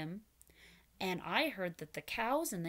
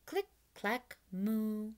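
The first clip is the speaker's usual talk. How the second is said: chanting click clack moo; slower than usual. Shown as a demonstration. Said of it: "Do it with me".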